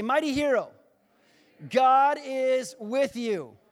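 emphatic, high, loud declaration, drawn out at the end; say it like you mean it. Shown as a demonstration. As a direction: proclaim it with full conviction, stretching the last words. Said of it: "say it like you mean it".

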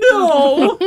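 high, breaking into laughter; can't keep a straight face saying no; giggling the punchline; laughing through a quote. Retold or imitated. Homer's answer, laughing through it.

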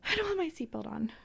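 hushed, small-voiced imitation of a daughter; imitated child. Voices frightened daughter in a story.

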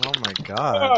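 high, loud laughing shriek. Real, not acted. Friend reacts to a bit.

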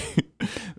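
stifled sneeze, breathy burst; sneezing. Real, not acted. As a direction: let out a small held sneeze. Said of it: "I'm gonna sneeze".

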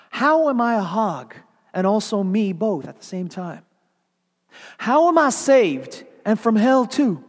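high, loud, outraged questioning of God; a proud woman snarling up at God; indignant pleading. Acted. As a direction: throw the questions at heaven, affronted. Mrs Turpin arguing with God.

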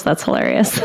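breathy laugh through words; laughing too hard to voice it. Real, not acted. Laughing at funny portrait.

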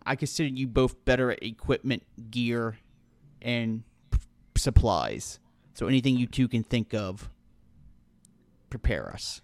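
measured, soft game character; low, soft in-character delegation; Roscoe. Acted. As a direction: give a quiet, grave instruction. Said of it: "Roscoe looks at Rovarth and Flint and goes".

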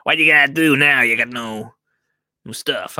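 lightly voiced mafia heavy making a threat; mafia reenactment. Supplier threatening a peat-free garden centre, mild mock mafioso. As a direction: lean on them like a mild mock gangster. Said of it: "reenactment right there".

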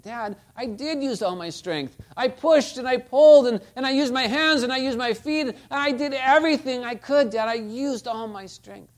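put-on a boy pleading with his dad, close to crying; frustrated pleading son. Boy to his father, pleading through frustrated tears. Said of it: "with tears of frustration in his eyes".

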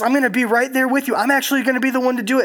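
a lifted, eager promise; God reassuring. Retold or imitated. Preacher voicing God, raised.

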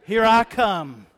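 loud hide-and-seek call. Acted. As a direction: announce it loudly to hidden players. Hide-and-seek call being quoted.

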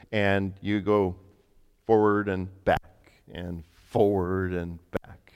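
slow, drawn-out steps of the instructions; slow demonstration. Retold or imitated. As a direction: spell out each stroke slowly, like a trainer. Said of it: "he showed me how to use a vacuum".

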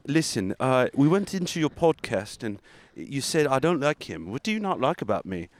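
lightly put-on accent, confronting; Elon Musk. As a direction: play a slighted mogul calling someone out. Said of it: "So here, I'm Elon".

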